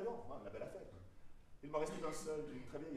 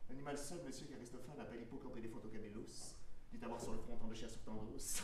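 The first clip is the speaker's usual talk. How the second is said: pedantic; 4 semitones lower than usual. Acted. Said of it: "Pédant".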